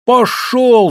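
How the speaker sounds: loud, high, drawn-out yell; women's shout. A narrator's reading. Village women drive the speaker off, shouting. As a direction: yell him away in a high voice. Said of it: "закричали бабы".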